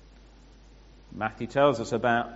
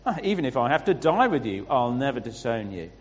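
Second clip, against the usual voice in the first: emphatic declaration; 4 dB louder than usual. Acted. Peter declaring loyalty to Jesus, emphatic declaration. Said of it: "But Peter declared".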